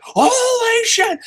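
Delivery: very high, slow, drawn-out squeal of joy; kid's wild excitement. Pretend. As a poor kid thrilled about Pizza Hut, a very high drawn-out squeal. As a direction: stretch it out like an overjoyed child.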